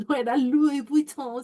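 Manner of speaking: real amused giggle on "no era Louis Vuitton"; laughing aside. Real, not acted. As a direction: chuckle while correcting herself about "Louis Vuitton".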